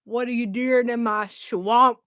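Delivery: slow Scottish ogre line; Scottish accent. Acted. Quoting Shrek to show the accent, Scottish accent. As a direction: say it slowly, with a Scottish burr. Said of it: "I'm Scottish".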